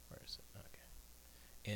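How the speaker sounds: whispered to himself; barely voiced searching. Real, not acted. Whispered aside.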